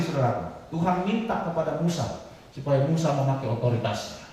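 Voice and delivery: ordinary talk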